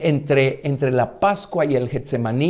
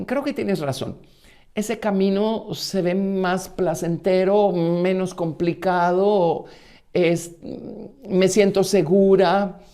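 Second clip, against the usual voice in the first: a little higher, slower, musing and self-assured; lightly voiced Orfa; 4 semitones higher, slower than usual. Preacher voicing Orfa telling Noemí she'll return, lightly higher and musing. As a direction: let Orfa talk herself into the easy road.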